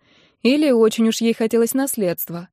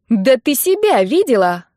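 loud, higher indignant retort; 4 semitones higher, 5 dB louder than usual. A narrator's reading. Nina retorts to the mother-in-law, loud indignant. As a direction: snap back, offended. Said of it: "возмутилась Нинка".

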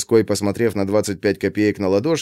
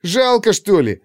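put-on high, slow childish whine; whining boy; 11 semitones higher than usual. A narrator's reading. Boy whines to friends for five kopecks, high. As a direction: plead like a ten-year-old kid. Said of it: "конючил он у друзей".

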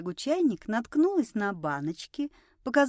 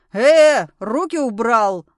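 loud, abrupt warning yell; angry shout; 11 dB louder, slower than usual. A narrator's reading. Woman defending her friend from a drunk, shouting. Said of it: "закричала Анжела".

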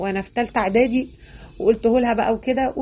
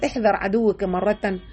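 quoting a saying; slower than usual. Retold or imitated. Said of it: "ابن الجوزي بيقول".

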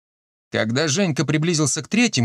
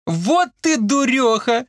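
high, drawn-out female voice; lightly amused teasing; 11 semitones higher, slower than usual. A narrator's reading. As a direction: tease a girlfriend in a high voice. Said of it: "громко захохотала Марийка". (весело поддразнивая, высоким голосом)

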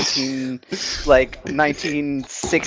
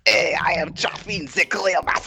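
put-on French accent; 3 dB quieter than usual. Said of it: "outrageous French accents".

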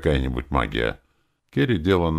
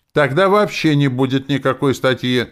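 louder, higher heated outcry; heated shout; 9 semitones higher, 7 dB louder than usual. A narrator's reading. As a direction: blurt it out in the heat of the moment. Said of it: "крикнула она в запале". (выкрик в запале, громче и выше)

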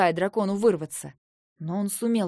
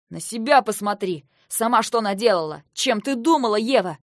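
raised, forceful voice; angry scolding; 5 dB louder than usual. Acted. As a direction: turn the blame back on a sister. Brother scolds sister in shouting match. (сердито, громко отчитывая)

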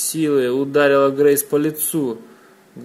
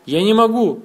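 a high, louder sob-like cry; sobbing; 8 semitones higher, 6 dB louder than usual. A narrator's reading. Irma, beaten, sobs she cannot apologise. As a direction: break into a sob on the words. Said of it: "всхлипнула она".

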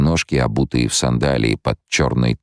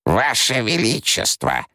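high, slow cry cutting the emperor off; urgent interruption; 10 semitones higher, slower than usual. A narrator's reading. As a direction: break in to stop him mid-rant. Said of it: "перебила ясновидящая". (ясновидящая перебивает императора, тревожный возглас)

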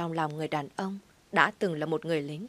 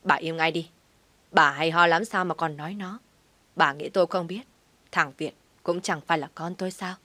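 barked order; 3 dB louder than usual. Acted. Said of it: "bỗng quát đây".

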